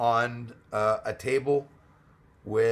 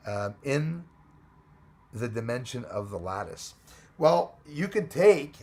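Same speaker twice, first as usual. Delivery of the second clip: ordinary delivery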